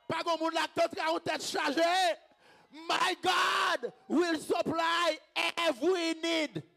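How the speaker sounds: high, loud, stretched proclamation; full-force shouted declaration; preacher's climactic shout. Real, not acted. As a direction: belt it out to the congregation.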